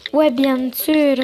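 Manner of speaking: slow, lingering agreement; slow drawn-out reply. Acted. Agreeing to a walk with Coralie, slow and drawn-out. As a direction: stretch out each word. Same reply redone slowly.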